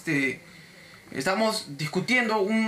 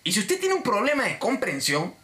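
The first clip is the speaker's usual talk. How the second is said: higher, emphatic correction; fed up; 5 semitones higher than usual. Retold or imitated. Agente harto que responde al cliente, tajante. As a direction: spell it out firmly, out of patience. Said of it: "ya me salió la voz de sí".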